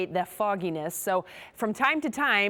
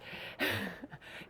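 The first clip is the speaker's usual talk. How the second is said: soft unvoiced laugh fading away; breathy laugh; 10 dB quieter than usual. Real, not acted. Weather forecaster laughing off mic at her own slip. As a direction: laugh it off quietly as if drifting away. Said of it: "as I fade off into the distance".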